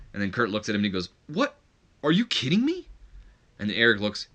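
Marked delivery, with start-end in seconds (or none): 1.3-2.9 high, squeaky mock outrage; outraged disbelief. Kurt's outraged reply, acted out.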